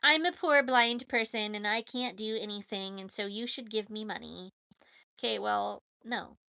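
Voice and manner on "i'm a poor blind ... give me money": lightly hammed-up poor-me whine; mock pitiful beggar. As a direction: play up the helpless act to guilt them. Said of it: "making them feel sorry for them".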